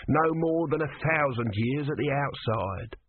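grudging god, slowly; tortoise god voice. Acted. Tortoise speaking.

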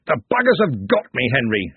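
a touch of a pained yell; injured wizard calling to Henry; mild yell. Acted. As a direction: call out over the noise. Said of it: "he yelled".

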